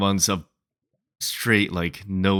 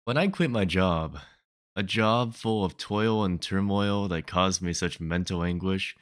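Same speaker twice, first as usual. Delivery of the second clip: measured spoken-word recital; poem reading. Acted. Poet opening a poem about quitting a job, poem reading. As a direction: read it as your own poem. Reads own poem aloud.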